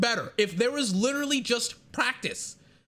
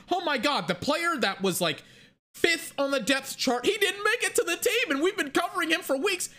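hammed-up TV narrator, higher toward the end; mock dramatic reveal; 6 semitones higher than usual. Mocking the show's dramatic reveal, hammed-up narrator voice. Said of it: "they wanna make it this big reveal, like, this dramatic piece".

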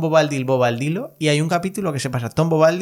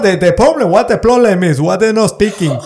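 hammed-up foreign accent in broken English, pitched higher and louder; mock broken English; 7 semitones higher, 8 dB louder than usual. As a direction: play a lost caller groping for English words, laughing through it. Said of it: "está alguien en Botswana diciendo".

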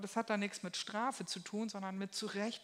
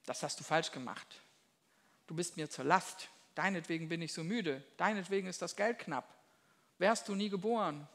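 Elternvorwurf. Retold or imitated. Vorwurfsvolle Eltern klagen Kind an.

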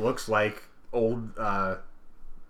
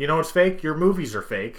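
loud retort; 5 semitones higher, 3 dB louder than usual. Acted. Retort to skeptics.

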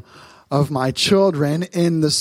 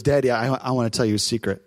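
put-on hushed, softer little-girl voice; child with a secret; 4 semitones lower, 3 dB quieter, faster than usual. Father imitating his daughter at dinner, hushed and softer. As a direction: lean in like a child about to confide. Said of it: "and she goes".

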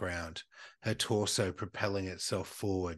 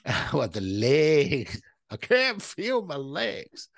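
slow ghost moan; 6 semitones higher, 6 dB louder, slower than usual. Pretend. Playing legless ghost.

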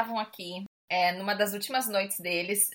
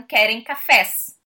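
very slow, a bit louder; slow deliberate; 8 dB louder, much slower than usual. Retold or imitated. Brazilian diner slowly repeating what the men understood. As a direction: spell it out slowly, leaning on cafés.

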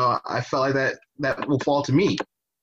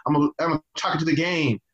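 higher, smug bro voice; a mild impression of a smug congressman, pitched higher; mocking Yoho; 6 semitones higher, faster than usual. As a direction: shrug it off like a cocky dude. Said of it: "He just kinda said".

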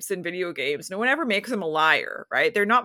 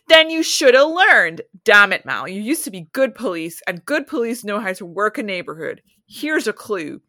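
angry Larry; 4 dB louder than usual. Acted. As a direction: lay into him as a hard-nosed cop. Larry berates Mal.

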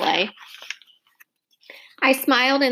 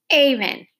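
furious mom; 4 semitones higher, 3 dB louder than usual. A narrator's reading. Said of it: "Mom's face was instantly furious".

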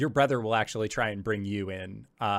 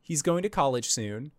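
raised pitch, quickening protest; insistent brother; 4 semitones higher than usual. Acted. Brother cutting in on mom about Caleb, insistent. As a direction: argue your brother's case in a rush. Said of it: "your brother says".

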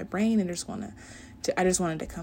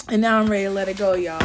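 excited; 8 dB louder, much faster than usual. Real, not acted. Repeats line louder and faster.

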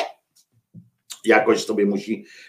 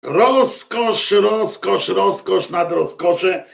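savouring delight; 7 semitones higher, much slower than usual. Acted. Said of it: "pełna rozkosz".

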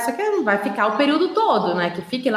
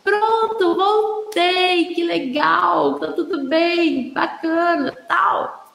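high sing-song, upbeat mum voice; cheerful mum; 6 semitones higher, slower than usual. Retold or imitated. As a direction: lilt it brightly for the little one. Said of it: "Aí a mãe fala". (mãe animada, voz aguda e cantada)

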